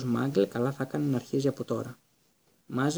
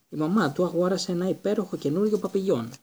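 doting mother; 5 semitones higher, 3 dB louder than usual. A narrator's reading. Aunt doting on son.

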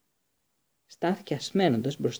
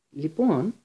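pressing harder, a bit louder; insistent repeat; 3 semitones higher, 4 dB louder than usual. Acted. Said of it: "επανέλαβε ο Σνέιπ".

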